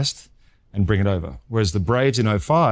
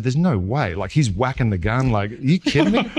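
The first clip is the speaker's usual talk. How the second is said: rising, laughing "are you kidding me"; mock the scout's amazed laugh; laughing disbelief; 2 semitones higher than usual. Scout doubting the radar gun, imitated with laughing disbelief. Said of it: "He said".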